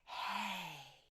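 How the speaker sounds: soft airy hey; breathy hey. Shown as a demonstration. Teacher showing the soft onset quietly. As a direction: let air leak through the hey. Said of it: "open, and it's".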